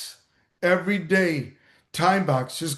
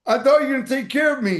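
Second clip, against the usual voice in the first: high, fast and aggrieved, as the drowned man; whiny complaint; 6 semitones higher, much faster than usual. Retold or imitated. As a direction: rush it out, indignant and let down.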